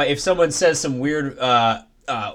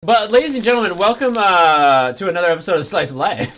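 podcast host intro. Acted. Host welcoming listeners to the podcast episode, announcer style. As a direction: open the show like a host. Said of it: "podcast host intro".

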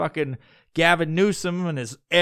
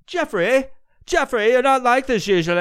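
very high, louder hammed-up concern; put-on fussing voice, pitched way up; mock concerned friend; 11 semitones higher, 5 dB louder than usual. Buddies greet a dejected Jeffrey at Starbucks, hammed-up concern.

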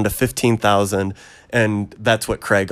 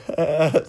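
high, brief half-crying laugh; pained little chuckle, acted out; mock cry-laugh; 6 semitones higher than usual. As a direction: imitate a laugh through tears. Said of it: "like, this cry smile".

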